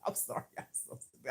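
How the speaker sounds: hushed, voiceless words through a laugh; real laughter. Real, not acted. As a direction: apologise while cracking up, voice nearly gone. Cracking up at own remark.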